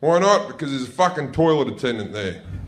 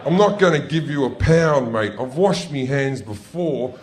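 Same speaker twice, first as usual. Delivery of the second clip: mock rant at attendant; 3 semitones higher than usual. Ranting at toilet attendant.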